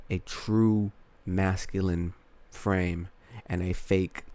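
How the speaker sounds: talking with a retainer in; slightly muffled by a retainer; wearing a retainer. Real, not acted. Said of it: "I have my retainers in, so it's kinda, like, hard for me to talk".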